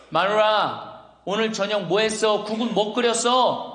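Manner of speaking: imitated husband calling out; calling to wife. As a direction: call out to the wife in the kitchen. Husband calls from bedroom to wife.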